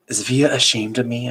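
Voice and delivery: put-on high, timid little boy; small child voice. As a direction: ask like a sleepy young boy. Child voice in story.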